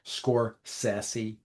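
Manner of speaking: Scorsese said "skor-SESS-ee"; pronunciation demo. Shown as a demonstration. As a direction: say Scorsese with a short "sess" and soft s. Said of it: "he pronounces it".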